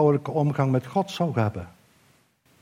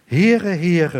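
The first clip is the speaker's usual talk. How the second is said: louder, ringing proclamation of the name; proclaiming call; 3 semitones higher, 5 dB louder than usual. Acted. Preacher voicing God calling out his own name, ringing louder.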